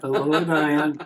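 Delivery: very slow, drawn-out mock-spooky greeting; eerie, lingering pretend ghost voice; playfully creepy voice. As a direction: stretch it out like a haunted mask talking.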